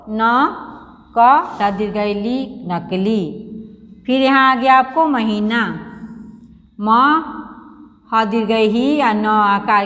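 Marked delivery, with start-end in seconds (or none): 0.1-3.2 slow, letter by letter spelling of नकली; teacher showing the class how to read नकली. Shown as a demonstration. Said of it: "तो कैसे पढ़ेंगे नकली को". 6.8-9.8 slow spelling out. Shown as a demonstration. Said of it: "क्या हो गया".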